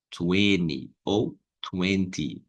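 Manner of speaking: "Twenty" first without t, then with t, slowly; teacher offers both variants slowly; two pronunciations. Shown as a demonstration. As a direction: contrast "Twenty" flapped and full t. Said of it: "como fala vinte".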